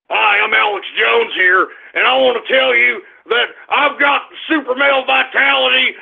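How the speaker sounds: mocking impression of a ranting conspiracy host; Alex Jones. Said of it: "this goddamn idiot Alex Jones".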